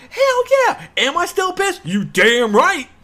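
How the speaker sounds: high, loud hell yeah; mock-furious gamer ranting; emphatic outburst. Real, not acted. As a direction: belt it out, fired up. Pissed about delay.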